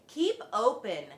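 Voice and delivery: loud command to keep open; yelled. A narrator's reading. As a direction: shout it at the patient. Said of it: "yelled Doctor DeSoto".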